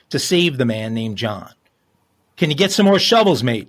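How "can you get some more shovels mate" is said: put-on weak Australian accent. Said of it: "Oh, I gotta do that better".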